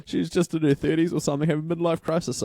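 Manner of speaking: high-pitched mock-amused receptionist, opening on a "ha"; imitated amused laugh. Patient retells receptionist's reply about the midlife crisis, mock-amused and high. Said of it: "she laughed and she goes".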